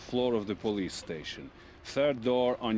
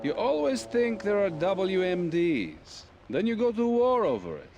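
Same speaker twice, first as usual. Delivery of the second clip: mocking sarcasm; 8 semitones higher than usual. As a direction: sneer at the West's paranoia. Russian official mocking Western paranoia.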